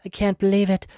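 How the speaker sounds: overwhelmed relief. Retold or imitated. Viewer reaching the other side, breathless and gushing. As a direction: play the viewer stunned that they finally made it. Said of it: "You're like".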